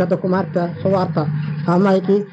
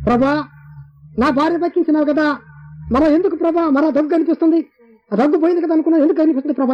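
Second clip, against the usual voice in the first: pleading prayer; 8 semitones higher than usual. Retold or imitated.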